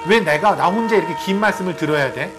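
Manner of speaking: acted-out petty complaint; mildly hammed-up griping; mock grumbling. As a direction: grumble as if unfairly put upon. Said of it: "말씀을 들으면서도 불평했을 거예요".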